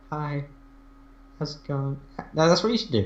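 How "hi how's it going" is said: put-on hushed, wispy, soft little old woman whisper. Showing how old women speak, quiet wispy old-woman voice. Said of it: "Quietly and like with a little wisp".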